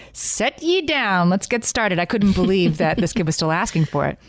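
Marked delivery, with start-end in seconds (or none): 0.1-2.0 put-on slow, higher, grand old-fashioned storyteller; old-timey storyteller. To her kid asking for A Christmas Carol, slow old-fashioned storyteller voice. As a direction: playfully ham up a Dickens-era narrator. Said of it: "I was like".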